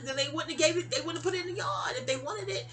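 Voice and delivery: mild mock yell of an argument; retold protest.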